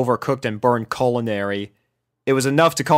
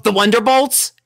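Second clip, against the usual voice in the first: higher, blunt cut-in; blunt tomboy; 10 semitones higher, 4 dB louder than usual. A narrator's reading. Rainbow cutting Rarity off bluntly. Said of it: "a bit bluntly".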